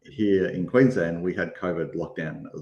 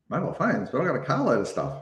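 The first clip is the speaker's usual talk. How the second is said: higher, puzzled retold question; surprised; 5 semitones higher than usual. Replaying her reaction to the sergeant, mock surprised. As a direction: echo it back in disbelief. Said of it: "And I'm like".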